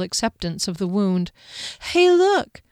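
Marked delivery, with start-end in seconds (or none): 1.8-2.6 oddly cheerful, high and bright; bizarre cheerfulness. A narrator's reading. Wounded Fennel showing Kier the rod, odd cheer. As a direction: chirp it like nothing's wrong. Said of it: "with bizarre cheerfulness".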